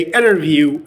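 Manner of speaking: "interview" said as "innerview"; no T after the N in "interview"; dropped T. Shown as a demonstration. Teacher explaining the rule, "interview" without its T. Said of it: "you can delete the T sound".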